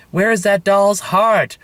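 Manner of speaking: a hint of a child's wondering question; little girl. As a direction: ask like a curious little girl. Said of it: "Hester as a little girl goes".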